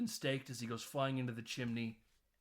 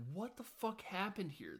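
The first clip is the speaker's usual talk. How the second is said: higher-pitched mock-shocked mom; retold dismay; 7 semitones higher, 4 dB quieter than usual. Retold mom finds house wrecked.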